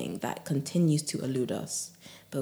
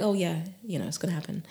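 nonchalant; faster than usual. Shown as a demonstration. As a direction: brush it off as a sure thing. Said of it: "It's like nonchalant".

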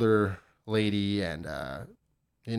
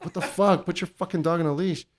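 retold yelling; 5 semitones higher than usual. Man at his door to careless dog owner, retold yell at moderate volume. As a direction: re-enact telling her off, pitched up. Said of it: "I was just yelling at this dumb lady".

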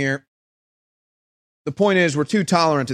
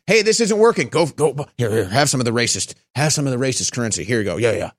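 sinks lower and hushed, a scheming dealer; mock insider voice; 5 semitones lower than usual. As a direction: pass it over like a shady deal. Voices elites handing out currency.

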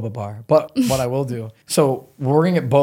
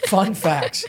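higher, louder mock demand, the end slowed right down; mimicking friend; 8 semitones higher, 5 dB louder than usual. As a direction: parrot her bossy demand. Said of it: "She goes".

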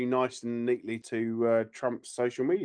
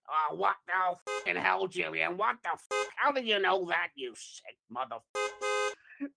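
higher put-on gangster voice; mock-indignant gangster, tailing off softer; Joe Pesci; 7 semitones higher, 3 dB quieter than usual. Gangster answers the nutritionist, mock-outraged impression. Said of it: "haven't you, Joe?".

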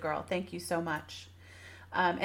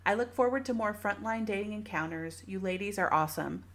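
review read aloud. Acted. Reading a listener review aloud.

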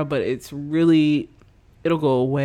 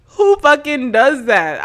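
loud, slow, disgusted disbelief; baffled outrage; 9 semitones higher, 9 dB louder than usual. Real, not acted. Comic ranting to her audience, loud slow disgusted disbelief. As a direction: drag out the outrage at the cook. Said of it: "I'm literally baffled and disgusted".

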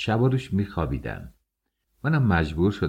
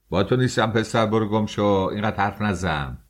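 raised, impatient dismissal; irritated scolding; 3 semitones higher than usual. Acted. Engineer telling the clerk off, irritated. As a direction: brush off the interrupting newcomer sharply.

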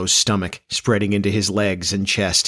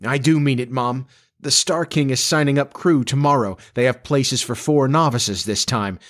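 lightly voiced earnest young man; a hint of boyish determination; determined son; 5 semitones higher than usual. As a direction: insist to your mom, slightly higher pitch.

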